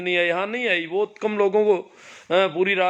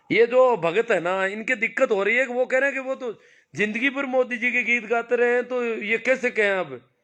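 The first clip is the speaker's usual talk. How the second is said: mocking laugh; 5 semitones higher than usual.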